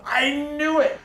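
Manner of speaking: sudden high excited cry; excited shout. Retold or imitated. Architect recognizing Kevin Conroy, excited high cry. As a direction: blurt it out, thrilled at recognition. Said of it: "He went".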